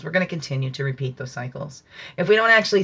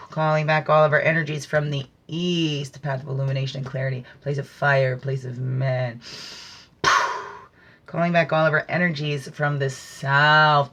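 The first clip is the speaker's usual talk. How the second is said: ritual invocation. Acted. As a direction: intone it like a ceremony prayer. Ritual calling in the four directions.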